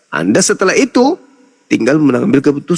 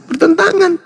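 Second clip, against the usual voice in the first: emphatic self-answer; 12 semitones higher than usual. Real, not acted. Debater answers his own challenge to his opponents, high emphatic self-answer.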